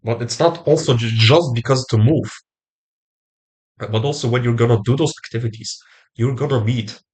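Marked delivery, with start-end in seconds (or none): 3.8-7.0 talking through a blocked nose; stuffy nose, speaking through it; nasal voice. Real, not acted. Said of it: "I know that I'm talking through the nose".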